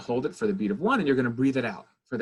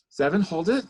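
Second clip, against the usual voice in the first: guided breath count; 3 semitones higher than usual. Shown as a demonstration. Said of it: "We're gonna inhale again".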